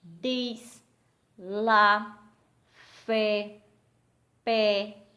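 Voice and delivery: each word loud and on its own; one firm beat per word, with gaps between; single-syllable beats. Shown as a demonstration. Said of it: "palavras que a gente só emite um som".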